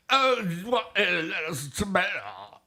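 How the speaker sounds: high, goofy slurred question; hammed-up high-pitched silly voice; new silly voice. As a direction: ask in a high, mumbled mock voice. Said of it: "that's my new voice right now".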